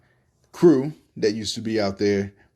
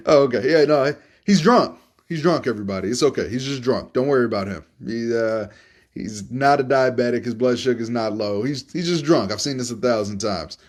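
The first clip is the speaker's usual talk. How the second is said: hammed-up doctor. Doctor reassures passengers.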